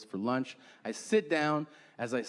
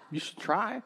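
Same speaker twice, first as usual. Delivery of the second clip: mock encouragement; 6 semitones higher than usual. Acted advice to his friend.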